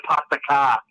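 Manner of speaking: "pasta car" with no R in "car"; dropped R's. Shown as a demonstration. Showing friends the local speech, "car" with dropped R. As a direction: drop the R in "car", New England style. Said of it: "we don't pronounce the R's".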